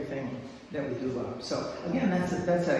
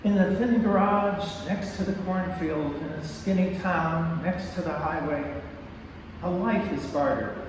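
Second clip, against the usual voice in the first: poem reading. Acted. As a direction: read the poem with weight. Reads her poem aloud.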